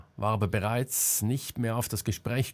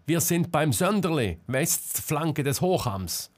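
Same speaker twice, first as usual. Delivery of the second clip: urgent shout; 6 semitones higher than usual. A narrator's reading. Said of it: "schrie Selma".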